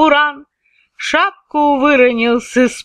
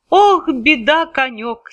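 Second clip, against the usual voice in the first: tearful lament; 3 semitones higher than usual. Acted. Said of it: "Иван заплакал".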